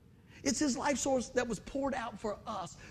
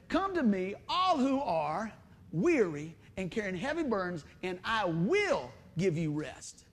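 slow, weighty reading; slower than usual. Acted. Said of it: "Jesus said".

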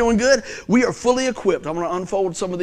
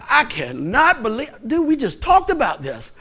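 mock exasperation, pitch swinging up; exasperated dad; 5 semitones higher than usual. Dad scolding his little son, mock exasperated. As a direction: act out a dad who can't believe it. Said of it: "And I was so mad".

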